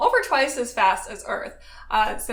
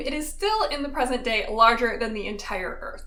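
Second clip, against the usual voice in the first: ordinary talk, nothing marked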